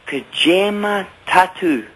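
"Kajima tattoo" carefully drawn out for a learner; demonstrating Gaelic. Shown as a demonstration. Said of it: "let me say to you how to say".

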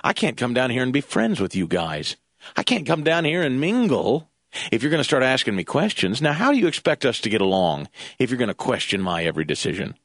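mildly mocking, low, composed rebuke; cool, calm voice. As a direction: imitate someone coolly laying down terms. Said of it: "in his cool, calm voice".

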